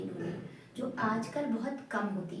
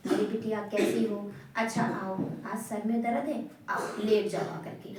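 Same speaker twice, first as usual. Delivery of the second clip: loving mother; 3 semitones lower than usual. Retold or imitated. Mother soothing child with a headache, tenderly. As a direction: coax the sick child to lie down gently. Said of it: "mummy ने बहुत प्यार से बोला".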